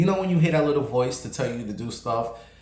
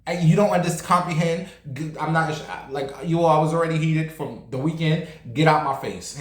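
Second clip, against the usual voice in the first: heated retort; 3 semitones higher than usual. Retold or imitated. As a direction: lay into the man, fed up. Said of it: "I said".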